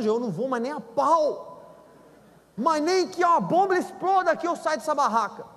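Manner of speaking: high, stubborn refusal; marido teimoso. Retold or imitated. Husband refuses, voiced. (marido teimoso recusando)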